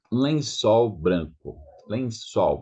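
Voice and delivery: lençol ending in u, no l; lençol, final l as u. Shown as a demonstration. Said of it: "is not L, is U".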